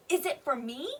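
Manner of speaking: wanting to know, "me" lifted at the end; question intonation. Shown as a demonstration. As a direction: ask with a rise on "me". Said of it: "The person wants to know".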